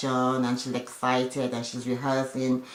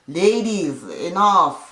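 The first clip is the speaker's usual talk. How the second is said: louder, slightly raised mock scolding; calling for order; 4 semitones higher, 5 dB louder, much slower than usual. Retold peacemaker stopping women going back and forth, firm call. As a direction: imitate someone breaking up a squabble.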